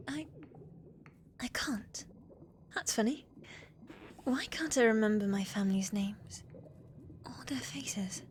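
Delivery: hesitant, hushed disbelief; troubled and halting; uneasy confusion. Acted. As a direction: trail off into a near-whisper as the memory fails. Forgetful Zelda realises her memory is gone.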